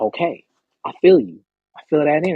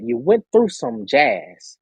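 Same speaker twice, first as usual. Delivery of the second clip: slow emphatic; 2 semitones lower, much slower than usual. Real, not acted. Slow low delivery.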